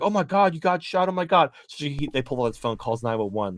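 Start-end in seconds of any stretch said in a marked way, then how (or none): 0.0-1.5 higher, louder mock shock; hammed-up rioter panicking over the shot woman. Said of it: "And the guy's like".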